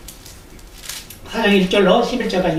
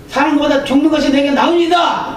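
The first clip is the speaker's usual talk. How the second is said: the verse raised higher, Jonah shouting back; defiant outburst; 4 semitones higher than usual. Retold or imitated. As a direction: fling 나으니이다 at God in protest. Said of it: "또 이렇게 큰 소리를 칩니다". (하나님께 큰소리치는 요나)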